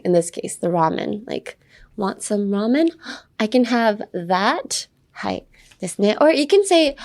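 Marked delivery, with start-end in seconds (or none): 2.0-4.9 hesitant surprise. Pretend. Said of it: "To express a hesitant feeling".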